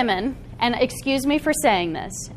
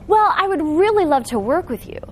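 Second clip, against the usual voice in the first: timid pleading; 5 semitones higher than usual. Shown as a demonstration. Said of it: "your shoulders automatically go up and you're like".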